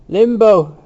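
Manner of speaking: high, loud exclamation; crying out. A narrator's reading. Temple seizes on Dixon's mention of limbo, crying out. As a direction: cry the word out in disbelief. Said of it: "Temple cried".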